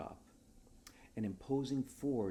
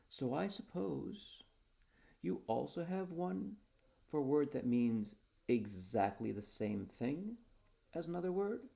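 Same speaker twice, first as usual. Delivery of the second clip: slow pitch; 6 semitones higher than usual. Acted. Perez pitching another word.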